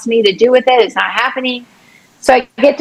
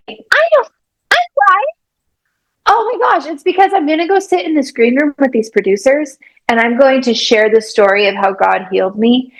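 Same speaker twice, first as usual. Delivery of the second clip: excited inner voice; faster than usual. Retold or imitated. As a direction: gush about the big plan. Retold own excited thoughts.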